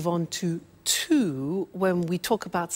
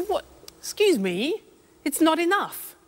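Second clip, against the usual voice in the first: mock indignant customer; 7 semitones higher than usual. Pretend customer complains, short change.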